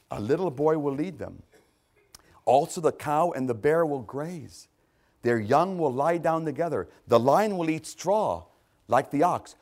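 deliberate, emphatic verse reading; measured scripture reading. Real, not acted. Preacher reading Isaiah's prophecy to the congregation, measured and emphatic. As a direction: read the verses out phrase by phrase. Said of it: "I'm gonna read them slowly".

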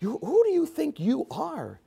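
a high, soft sneer; Satan sneering softly at Jesus; intimidating Satan. Retold or imitated. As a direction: plant doubt with a quiet sneer. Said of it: "he's intimidating Jesus".

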